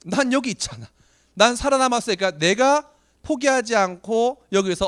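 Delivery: fierce self-vow. Retold or imitated. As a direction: pump yourself up, you survived. Vowing to himself after hardship.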